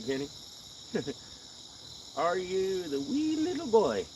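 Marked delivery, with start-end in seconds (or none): 2.2-4.0 mock Irish. Playful Irish voice teasing.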